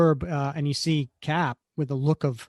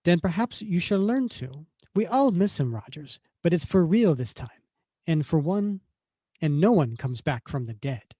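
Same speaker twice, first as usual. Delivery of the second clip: female Italian voice; 3 semitones higher than usual. Acted. Reader as Contessa answering Rogers's doubts, light Italian accent. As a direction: voice an Italian woman, gently lilting accent. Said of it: "I have to do a female Italian voice".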